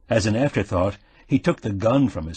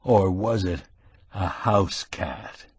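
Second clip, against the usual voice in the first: threatening emphasis; slower than usual. Acted. Quillerin hints to the thief, slow and threatening. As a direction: lean in and let the threat hang. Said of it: "gave it a threatening emphasis".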